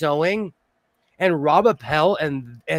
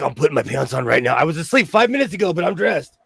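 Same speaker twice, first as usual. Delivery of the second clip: eager rushed reply. Pretend. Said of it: "I'll be like".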